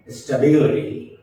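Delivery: slow "stability", lifting the syllable before ty; sta-BIL-ity, weight on BIL; stress before TY. Shown as a demonstration. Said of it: "the scale should go up".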